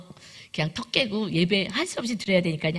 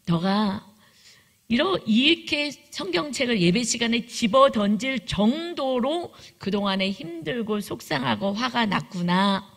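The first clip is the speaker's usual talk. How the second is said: 1 gentle empathy. Retold or imitated. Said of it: "그 마음을 제가 읽어줬어요".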